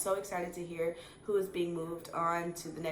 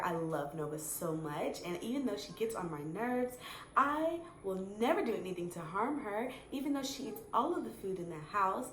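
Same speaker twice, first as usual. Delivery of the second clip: smiling interview voice. Shown as a demonstration. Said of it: "I'm gonna talk like this".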